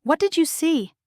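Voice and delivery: snarling. A narrator's reading. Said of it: "His voice is a snarl".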